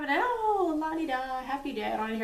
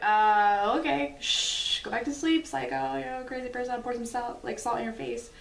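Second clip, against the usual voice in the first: humoring hush; 3 semitones higher, 3 dB louder than usual. Retold or imitated. Soothing a sleep-talking husband.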